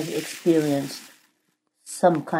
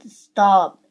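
mild yell, louder and higher; yelled protest; 4 semitones higher, 6 dB louder than usual. A narrator's reading. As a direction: cry out in protest, narrated. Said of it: "until I yelled".

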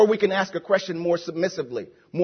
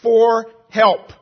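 crying out; 2 semitones higher, 5 dB louder than usual. Retold or imitated. Preacher voicing the psalmist's cry for help, crying out loudly. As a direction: cry it out with weight on each word. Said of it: "verse one says, "I cried out".

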